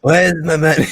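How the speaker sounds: raspy chain-smoker voice, loud and high; smoker's rasp. Retold or imitated. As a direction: imitate a rasping old smoker. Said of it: "she sounds like she's been smoking for, like, eighty years".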